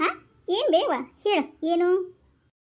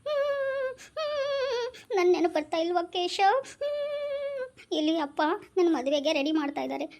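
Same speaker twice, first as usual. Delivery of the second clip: acted crying; 2 semitones higher, slower than usual. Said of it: "ಅಕ್ಕ ಎಷ್ಟ್ ಅಳ್ತಾ ಇದ್ದಾಳೆ".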